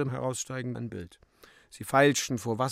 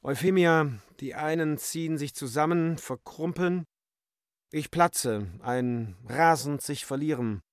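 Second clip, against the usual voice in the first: slightly overwrought, higher-pitched monologue; lightly acted outburst in a raised pitch; agitated Bébuquin; 5 semitones higher than usual. Bébuquin's outpouring to Euphemia. (leicht überspannter, höherer Ton)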